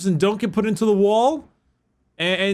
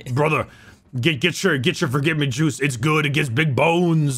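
Macho Man voice; 3 semitones lower than usual. Acted. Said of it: "That's the Macho Man".

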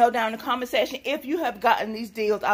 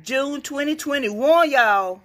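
higher, excited relief; relieved excitement; 4 semitones higher, slower than usual. Real, not acted. Vlogger finding the date still good, excited relief. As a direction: let the relief lift your voice up. Relief product not expired.

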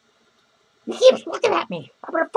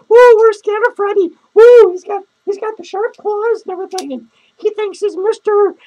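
mock scared whoops; 7 dB louder than usual. Mocking Freddy as Mister Stud Muffin.

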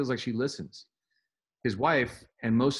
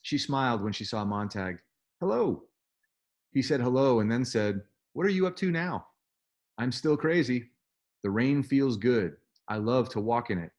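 reading a novel aloud to the class; steady read-aloud, lightly voicing the girl; story reading. A narrator's reading. Teacher reading Fahrenheit 451 to students, lightly voiced.

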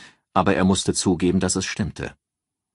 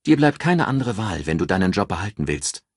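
raised voice for a calculating friend giving advice; Ann, cool strategist; 2 semitones higher than usual. Acted. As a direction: lay out the plan like a cool strategist. Ann pressing him.

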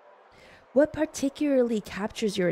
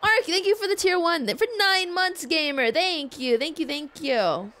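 excited thanks; 7 semitones higher than usual. Real, not acted. Thanking a subscriber.

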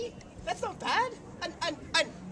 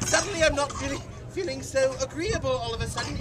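nervous laughing; faster than usual. Acted. Flustered, laughs it off.

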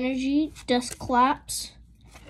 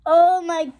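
ordinary delivery

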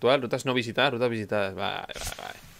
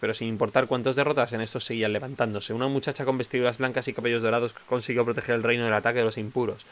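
reading lore text. Acted. Reads lore text aloud.

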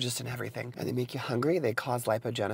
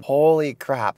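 shocked; 8 dB louder, slower than usual. Real, not acted. Reacting to sodium.

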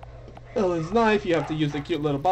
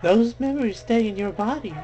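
sly witch voice; 5 semitones higher than usual. Acted. Witch taunting Viola.

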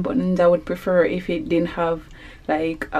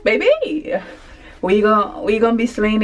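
sassy; 2 semitones higher than usual. Real, not acted. Sassy shopping brag.

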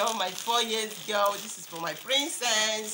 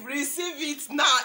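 laughing through tears; 3 semitones higher than usual. Real, not acted. Overjoyed at the gifts.

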